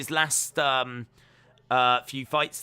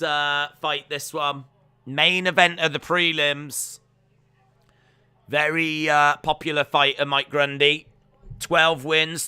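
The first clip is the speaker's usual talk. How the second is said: louder fight-card introduction; fight announcer; 3 semitones higher, 5 dB louder than usual. Acted. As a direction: introduce the fighters like a ring MC, lightly.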